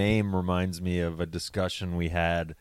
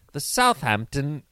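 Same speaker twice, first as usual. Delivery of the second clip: put-on British accent; 5 semitones higher than usual. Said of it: "fun to say in the British accent".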